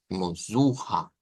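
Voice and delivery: "zuja" said slowly, u clear; "zuja", despacio, con la u bien marcada; transliterated zuja. Shown as a demonstration. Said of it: "vamos a decir así". ("zuja" pronunciado lento y claro)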